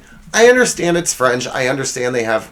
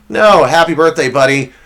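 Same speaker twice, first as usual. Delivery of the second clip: louder, punchy roast-style birthday wish; mock roast greeting; 5 dB louder than usual. Host roasting producer on his birthday, loud punchy greeting. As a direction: bark the birthday wish as part of the burn.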